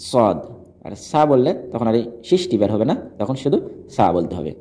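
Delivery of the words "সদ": সদ with a hissing, whistled opening sound; whistle-like sibilant at the front of সদ; whistling S. Shown as a demonstration. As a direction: start সদ on a snake-like hiss. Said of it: "শীষ বের হতে হবে সাপের মতো".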